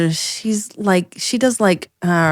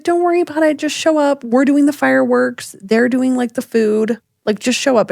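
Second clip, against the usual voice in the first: breezy reassurance; 5 semitones higher than usual. Retold or imitated. Other mom breezily reassures over text.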